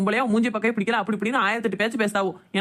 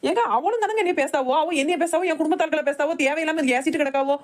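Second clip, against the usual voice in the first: upset high protest; 4 semitones higher than usual. Acted. Wife protests to husband upset.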